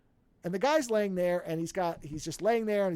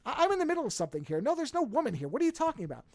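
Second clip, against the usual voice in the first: mildly exasperated retort, pitched up; irritated director; 6 semitones higher, faster than usual. Retold or imitated. Busy director to man seeking a woman, mild exasperation. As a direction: brush him off, voice lifted.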